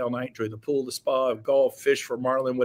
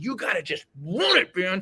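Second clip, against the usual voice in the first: ordinary delivery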